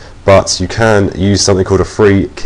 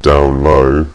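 down low; 4 semitones lower than usual. Shown as a demonstration. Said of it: "where I can go".

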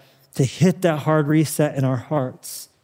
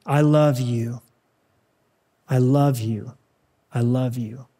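tender voice of God; slower than usual. Acted. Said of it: "he's saying".

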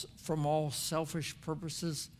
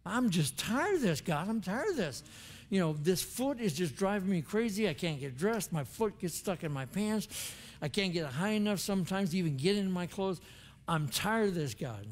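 frustrated complaint; 3 semitones higher than usual. Retold or imitated. Pastor venting at God about his stiff foot, exasperated. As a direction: vent the frustration to God like you're fed up.

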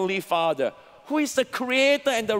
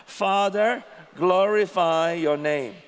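congregation reading in unison; firm unison reading; read aloud together; 3 semitones lower than usual. Real, not acted. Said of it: "three times as loud".

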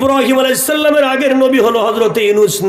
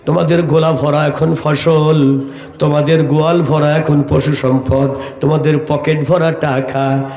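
melodic waz preaching. Acted. Preacher recounting a prophet's story to a congregation, melodic chant. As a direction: tell the story in long, chanted phrases.

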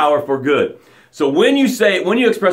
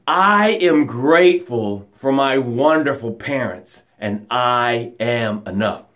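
slow sincere affirmation; 5 semitones lower than usual. Shown as a demonstration. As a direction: speak it slowly from the heart. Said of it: "express your gratitude out loud".

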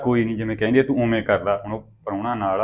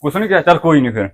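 loud doubt; 6 semitones higher, 6 dB louder than usual. Acted. Brother doubts sister.

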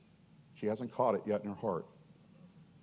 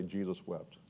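much softer, low reverent murmur; congregation response; 5 semitones lower, 10 dB quieter, slower than usual. Shown as a demonstration. Pastor leading the congregation in a soft reverent echo. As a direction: say it hushed, like a shared breath. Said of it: "Everybody say".

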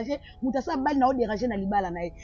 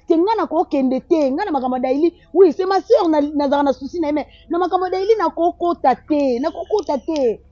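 emphatic refusal; 3 semitones higher, 4 dB louder than usual. Acted. Lisa refuses to intervene in quarrel.

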